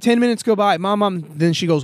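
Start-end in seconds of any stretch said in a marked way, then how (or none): 0.8-1.2 lightly voiced whiny kid calling mom; Family Guy kid nagging. Podcaster acts the ignored child meme, mild mock whine. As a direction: nag over and over, mock whine. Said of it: "that Family Guy meme".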